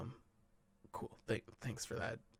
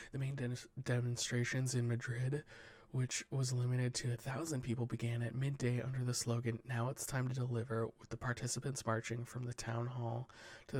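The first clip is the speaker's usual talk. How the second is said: steady newsreader delivery; news read; 3 dB louder than usual. Acted. Podcast host reading the headlines to cohosts, newsreader style. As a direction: read the wire report to the cohosts, measured news voice. Reads news stories aloud.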